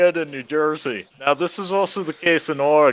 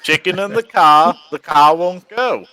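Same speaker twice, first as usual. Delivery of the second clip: put-on louder, Boston-accented chant: "car" as "cah"; Boston accent joke; 5 dB louder than usual. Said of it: "definitely Massachusetts car".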